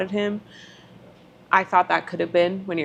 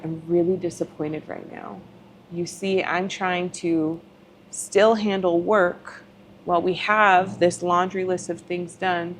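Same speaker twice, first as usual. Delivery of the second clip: calm. Retold or imitated. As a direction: keep it steady and gentle. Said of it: "I just calmly said".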